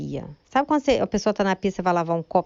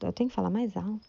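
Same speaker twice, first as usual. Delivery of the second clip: gentle meek voice; 3 semitones higher, 3 dB quieter than usual. Retold or imitated. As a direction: say it meekly, no edge. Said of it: "eu falei bem mansinha".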